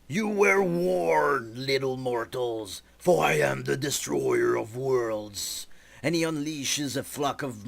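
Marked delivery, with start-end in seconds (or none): 0.1-5.7 slow, menacing, looming threat; angry. Acted. Enemy warns the little mortals, slow and menacing. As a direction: drag out the warning like a dark god. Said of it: "cannot contain his anger".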